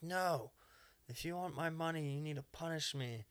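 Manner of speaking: imitated needy client; insistent customer. Voicing insistent customer character.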